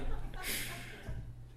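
a quick breathy burst of laughter; airy chuckle that fades out; real laugh. Real, not acted. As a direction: laugh at your own joke. Joke about home fellowship.

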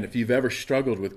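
ordinary talk, nothing marked

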